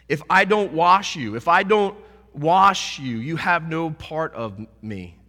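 Jesus warning Peter slowly and firmly; solemn Jesus. Acted. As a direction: press the condition home slowly.

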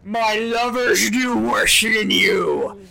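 mocking brute. Dragon mocks after gash.

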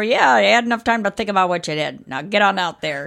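like a 1920s newscaster or pirate, hammed up; old-timey jailer accent. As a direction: play a gruff jailer booting her out with a put-on accent. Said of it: "it sounds like a nineteen twenties newscaster".

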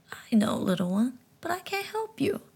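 talking frog gently explaining; high frog voice. Acted. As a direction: speak like a wise little frog. Frog answers boy.

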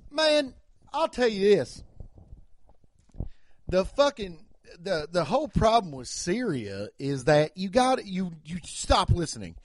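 put-on hillbilly accent. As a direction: hold forth like a hillbilly pundit. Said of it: "if a hillbilly person's like".

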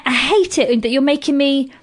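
ordinary talk

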